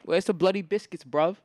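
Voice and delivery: half-successful British put-on; too-American British accent. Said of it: "Too American".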